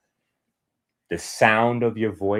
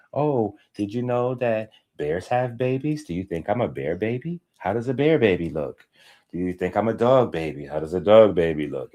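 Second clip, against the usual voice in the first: put-on baby talk. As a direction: lightly coo the questions to your child. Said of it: "now you can say".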